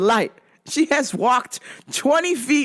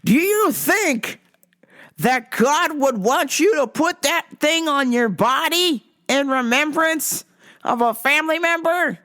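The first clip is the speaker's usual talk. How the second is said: preachy stranger voice; 5 semitones higher than usual. Retold or imitated. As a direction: lay it on like a pushy preacher. Retold preachy man quoted.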